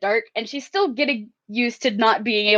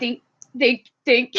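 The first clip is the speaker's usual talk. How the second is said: sneaky little cartoon "dink"; cartoon tiptoe sound. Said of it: "those cartoon sound effects of, like, the sneaking tiptoes".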